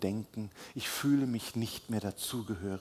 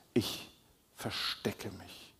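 whispered confession; 4 dB quieter, slower than usual. Acted. Speaker voicing someone hiding.

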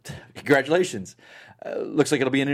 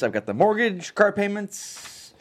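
despairing list; 6 semitones higher, slower than usual. Acted. Listing worries, despairing.

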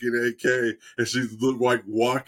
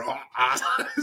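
laughing ah ah, a little higher; mock laugh; 4 semitones higher than usual. Retelling the sister's reaction, laughing. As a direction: chuckle out the ah ah.

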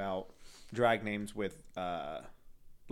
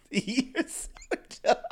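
mock insult; 12 semitones higher, 5 dB louder, slower than usual. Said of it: "I'm just kidding".

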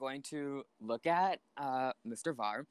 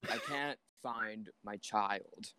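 slow, soft, lost plea; distraught; 4 semitones lower, 4 dB quieter, slower than usual. Acted. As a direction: plead softly, lost. Tells guard, distraught.

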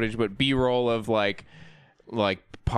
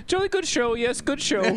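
imitating a posh English gent, much higher and shouted; mock British accent; 11 semitones higher than usual. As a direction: squeal "Jolly good show" like a silly English toff. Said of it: "He keeps saying".

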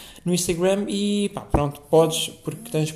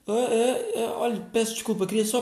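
timid clubber; 6 semitones higher than usual. Retold or imitated. Timid clubber approaching bouncers.

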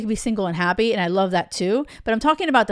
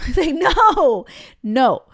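loud, high, drawn-out no; emphatic rejection; 5 semitones higher, 6 dB louder, slower than usual. Real, not acted. Coach shooting down hopes of fixing a bad match, loud and emphatic. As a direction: burst out with a laughing, exasperated no.

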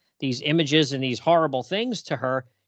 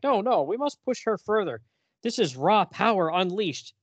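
mad scientist; 5 semitones higher than usual. Retold or imitated. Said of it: "He's like".

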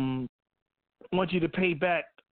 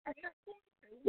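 a quick, much higher, softer mock English accent; 11 semitones higher, 8 dB quieter than usual. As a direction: toss off a bad English accent as a joke. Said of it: "that horrible accent".

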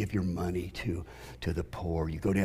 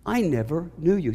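a hint of a scornful young punk; preacher voicing Jesus as a punk; 7 semitones higher than usual. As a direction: toss it off with a sneer. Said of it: "Sorry for the inflection of my voice".

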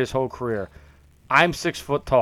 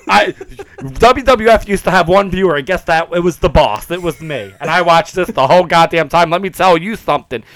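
wrestling promo; 3 semitones higher, 5 dB louder than usual. Pretend. Hype wrestling promo rant.

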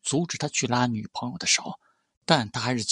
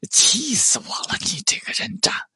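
furious roar; 11 semitones higher than usual. A narrator's reading. Huona Jiangshui explodes at the scumbag who angered him, furious roar. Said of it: "他咆哮了一句".

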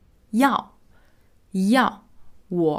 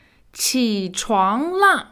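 insistent wake-up call; 3 semitones higher, 4 dB louder, much slower than usual. Acted. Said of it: "she really wants him to get up".

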